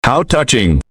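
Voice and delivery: lightly mock with amusement; amused. A narrator's reading. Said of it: "repeated with amusement".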